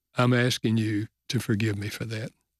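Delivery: ordinary talk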